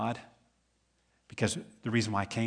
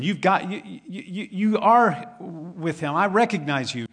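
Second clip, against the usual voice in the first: louder and higher, pressing the charge; accusing bystander; 8 semitones higher, 6 dB louder than usual. Acted. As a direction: point the finger at him. Accuser confronts Peter in a scene.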